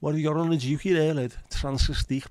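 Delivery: high, fast put-on Scouse accent; mock a Liverpool lad in a high Scouse voice. Streamer mocking a Scouse lad's song choice, high fast Scouse accent. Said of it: "the scousest sounding song".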